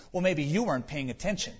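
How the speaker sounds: quick, laughing smug comeback; smugly. Retold or imitated. Granddaughter retorting to grandmother, a touch of smug and quick with a laugh. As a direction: toss it off like a cheeky kid winning the point. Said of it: "said very smugly".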